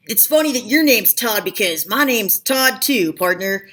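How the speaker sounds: a hint of a hammed-up cowboy; mock cowboy accent. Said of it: "said that in a cowboy voice".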